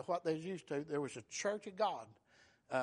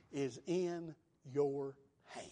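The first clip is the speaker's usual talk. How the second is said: dramatic whisper; 4 semitones lower, 4 dB quieter, much slower than usual. Acted. Preacher hushing to drive home the point, whispering. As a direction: drop the last words to a whisper.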